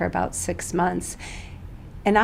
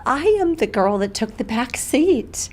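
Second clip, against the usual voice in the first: getting emotional; 5 semitones higher than usual. Real, not acted. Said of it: "I'll get emotional on this".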